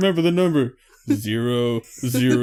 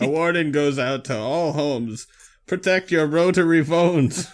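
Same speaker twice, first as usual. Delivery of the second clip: slow announcer warning; hammed-up public alert; mock news alert about the Rotary Bandit.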